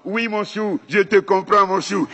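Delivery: high, sweet mother's coo; mother cooing to her one-year-old, high and doting. Retold or imitated. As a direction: coo like a mom to her baby. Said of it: "qu'est-ce que dit la maman".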